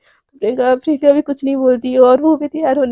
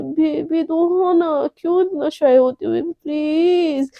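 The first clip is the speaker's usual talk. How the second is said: sleepy coaxing; 5 dB quieter, slower than usual. Acted. Sleep-talking coaxing her love.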